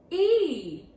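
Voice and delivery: high, very loud single letter; mock stern announcement. Teacher announcing a failing grade, loud mock verdict.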